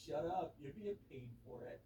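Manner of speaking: slow, laid-back surfer-dude drawl; lightly voiced surfer dude. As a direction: drawl it like a chill beach guy. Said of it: "He was like some surfer dude".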